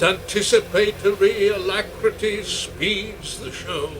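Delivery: verse recitation. Acted. Continues the verse.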